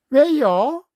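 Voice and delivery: put-on shocked boy. A narrator's reading. Boy shocked the calf was sold.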